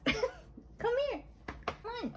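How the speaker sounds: high, soft coaxing call to a pet; high cooing come here. Real, not acted. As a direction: sweet-talk the pet over.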